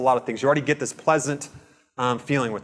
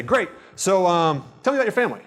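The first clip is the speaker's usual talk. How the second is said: careless change of subject; 4 semitones higher than usual. Shown as a demonstration. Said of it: "Do I care? No".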